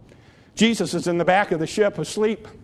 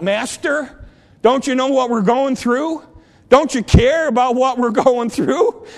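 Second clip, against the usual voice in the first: high, loud desperate calling out; anguished cry; 5 semitones higher, 4 dB louder than usual. Acted. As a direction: cry out to the Master. Voicing believers calling to Jesus.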